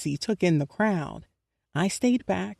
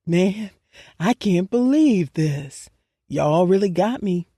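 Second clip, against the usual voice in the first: choked up; 5 dB louder than usual. Acted. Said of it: "His voice was thick with emotion".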